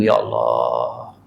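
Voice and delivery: very low, slow, drawn-out sigh; longing sigh. Acted. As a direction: breathe it out with deep longing. (keluhan rindu yang perlahan dan dalam)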